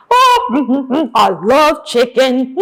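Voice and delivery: gleeful wolf with gobbling laughs; playful hungry wolf; greedy wolf. Acted. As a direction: chuckle greedily over the food. Wolf gobbling chicken in story.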